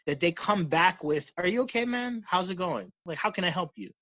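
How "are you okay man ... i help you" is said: caring. Acted. Replying to someone treating you poorly, caring and soft. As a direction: gently offer help, voice lifted. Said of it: "They show you positive regard".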